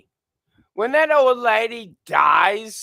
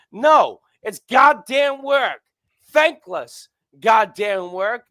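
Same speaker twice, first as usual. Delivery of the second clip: ranting; 2 semitones higher, 5 dB louder, slower than usual. Real, not acted. Ranting about thankless work.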